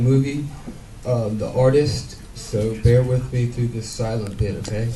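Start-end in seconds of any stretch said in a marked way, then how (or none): 2.3-4.9 mock hushed. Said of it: "Nah, I just playing".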